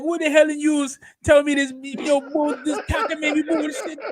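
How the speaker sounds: a bad Irish accent cracking into laughter; mock Irish accent. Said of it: "he got the Irish accent".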